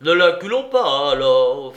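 loud, forceful objection; fierce retort. A narrator's reading. Bravida answers the warning about cornered chamois, fiercely. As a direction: fire it back loudly and fiercely.

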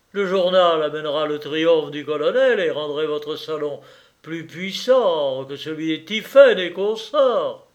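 lightly voiced, emphatic lawyer; promoting lawyer. Lawyer promising the hosts a powerful salon, lightly acted persuasion.

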